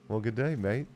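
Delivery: lighter put-on Aussie accent; mock Australian accent. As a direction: quote it in a playful Australian accent. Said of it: "That's a lovely accent you have there".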